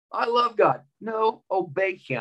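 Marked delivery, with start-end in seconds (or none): 0.1-0.8 cheesy mock piety. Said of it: "too cheesy for people to say".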